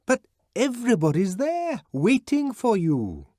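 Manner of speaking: high, loud call through a locked door; pleading shout through a locked door. A narrator's reading. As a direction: yell to be heard through the door. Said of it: "had to shout through the locked door".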